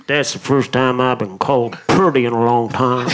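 put-on flirt in a deep Scandinavian accent. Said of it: "revisionist version of this guy".

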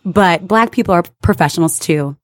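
calm, measured office voice; polite and composed, correcting a customer; professional voice. Retold or imitated. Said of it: "I say in my professional voice".

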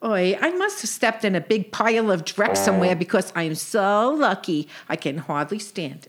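lightly voiced sarcastic sister; a hint of a dry, kvetching sister; Sadie.

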